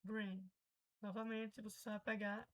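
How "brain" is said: "Brain" with an "ay" vowel; correct pronunciation. Shown as a demonstration. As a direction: model "Brain" as "brein". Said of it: "É brain". ("Brain" correto, com som de "ei")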